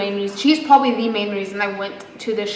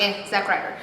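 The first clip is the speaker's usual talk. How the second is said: dismissive, softer and flat; unimpressed; 5 dB quieter than usual. Retold or imitated. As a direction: shrug it off. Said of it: "that's why I was like".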